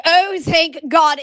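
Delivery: slow, drawn-out retold relief; happy relief. Host finally down to two newsletters, happy relief. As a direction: stretch it out like a mild mock thanksgiving. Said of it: "I was so happy".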